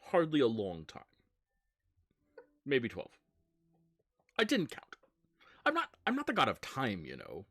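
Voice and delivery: lilting, nonchalant excuses, pitch leaping high then dropping; lightly voiced evasive deity; breezy god character. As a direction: brush off the question with airy self-defence. GM plays Samhain answering friend.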